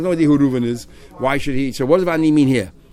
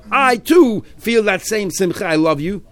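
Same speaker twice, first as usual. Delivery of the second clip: 1 joyful, slow; 6 semitones higher, 3 dB louder, slower than usual. Retold or imitated. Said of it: "it's such a simcha by me".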